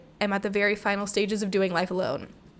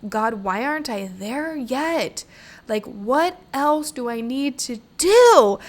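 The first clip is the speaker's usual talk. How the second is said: frustrated plea; 4 semitones higher, 5 dB louder, slower than usual. Retold or imitated.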